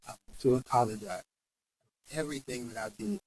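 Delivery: low, soft heartfelt apology; sincere apology. Retold or imitated. Patient hugging therapist, sincere apology. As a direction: drop low and quiet, meaning it. Retold apology during a hug.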